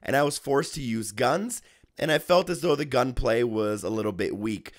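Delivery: hoarse sick voice; talking through a cold. Real, not acted. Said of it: "putting up with my sick voice".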